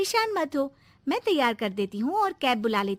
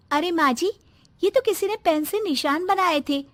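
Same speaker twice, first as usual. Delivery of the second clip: higher, louder eager reveal; excited discovery; 4 semitones higher, 4 dB louder than usual. Acted. Mother shows mother-in-law the washed-off marks, excited and loud. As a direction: show the proof with urgency.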